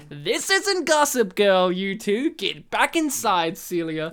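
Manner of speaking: intense, drawn-out teacher scolding; mock-stern and intense, slowly; full-on intense. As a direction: lay into them, stretching the words. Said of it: "like, full-on intense".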